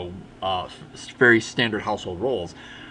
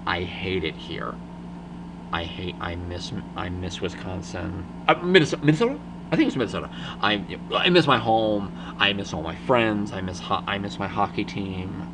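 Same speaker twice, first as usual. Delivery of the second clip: breaking down; 4 semitones lower than usual. Retold or imitated. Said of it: "she just breaks down in front of them".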